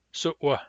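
hard W in "Su'wa". Shown as a demonstration. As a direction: break "Su'wa" sharply just before the W. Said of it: "Hard W".

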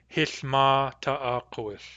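Hith ma ta'akowith, said slowly; Nuu-chah-nulth phrase. Shown as a demonstration. Teacher voicing how Grace would say Hith ma ta'akowith. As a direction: Hith ma ta'akowith with the real-mood ma. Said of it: "she would use the real mood".

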